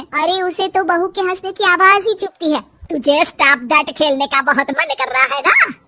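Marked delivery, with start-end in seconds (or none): 2.6-5.7 angry taunt. Acted. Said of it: "सास को फिर बहू पर गुस्सा".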